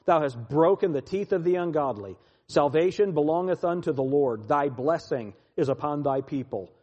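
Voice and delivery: emphatic psalm reading, key words punched; scripture reading. Acted. Preacher reads the psalm to his listeners, declaimed. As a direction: declaim the psalm with surges of force.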